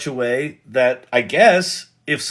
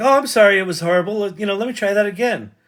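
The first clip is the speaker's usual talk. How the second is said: put-on apologetic assistant voice, higher pitched; 5 semitones higher than usual. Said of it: "doesn't have attitude".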